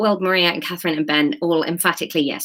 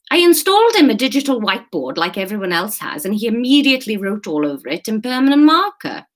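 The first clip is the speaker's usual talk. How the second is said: animated character complaint, slightly raised; exasperated staff member; 3 semitones higher, 3 dB louder than usual. Acted. Staff member moans about the whiteboard, exasperated. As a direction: vent about a hopeless colleague.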